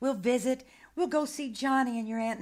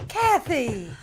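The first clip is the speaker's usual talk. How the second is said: calling out; 3 semitones higher, 9 dB louder than usual. Acted. Nanny calls after running child.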